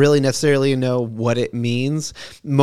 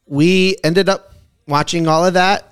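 upbeat, higher DJ patter; radio DJ voice; 3 semitones higher than usual. Acted. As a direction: sell it like a late-night radio host. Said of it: "Why the fuck you sound like a radio D J?".

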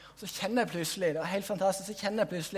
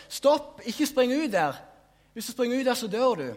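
høyt, skremt rop om å stoppe; desperat rop; 5 semitones higher, 6 dB louder than usual. Retold or imitated. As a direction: rop for å redde dem fra stupet. Vision, man trying to stop people. (desperat advarende skrik)

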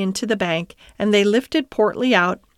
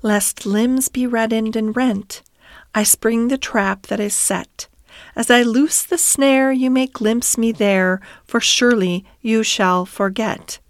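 measured incantation, lightly intoned; verse recitation; 2 semitones higher than usual. Acted. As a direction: recite it as a mysterious song in verse. Rat recites the song's words.

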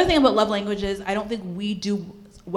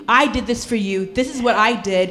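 loud, insistent mock grievance; resentful complaint; 4 dB louder than usual. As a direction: play the unappreciated partner, pushing it louder. Acted resentful partner keeping score.

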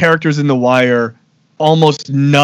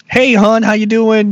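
higher-pitched, salt-of-the-earth white Baltimore accent; 7 semitones higher than usual. Shown as a demonstration. Beehive-haired fifties local greeting a customer, white Baltimore accent. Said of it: "what that would sound like".

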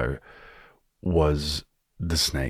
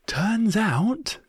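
ordinary delivery

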